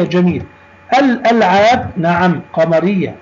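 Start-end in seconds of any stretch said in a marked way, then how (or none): 1.0-1.9 الألعاب with the first l clearly sounded; careful teacher demo of الألعاب, article's l kept; pronounced lam. Shown as a demonstration. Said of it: "نطقنا اللام وعليها سكون". (نطق «الألعاب» بلام ساكنة واضحة)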